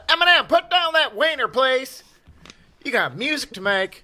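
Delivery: high, loud mock yell; retold shout. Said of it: "And I said".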